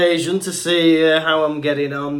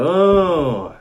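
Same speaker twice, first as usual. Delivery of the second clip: mimicking server; 5 semitones higher, 5 dB louder, slower than usual. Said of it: "They just go".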